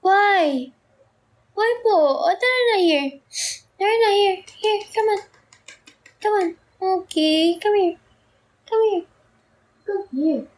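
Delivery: high, sing-song coaxing to a pet. Real, not acted. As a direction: coax the cat over, sweet and sing-song. Sweet-talking her crying cat. (malambing na boses sa pusa)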